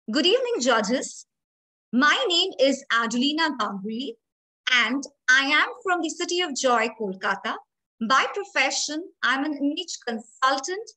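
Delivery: bright, lively self-introduction with spark on name and city. Shown as a demonstration. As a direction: introduce yourself to the judges with spark, not flat. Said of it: "Do you see there is a spark when I say my name".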